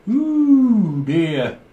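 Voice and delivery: high, loud ooh. Real, not acted. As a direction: squeal a surprised ooh. Exaggerated reaction to drunk caller.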